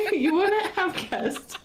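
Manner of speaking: "so now you wouldn't have guessed" slowed and breaking into laughter; trying to talk through helpless laughter; laughing. Real, not acted. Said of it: "broke crying".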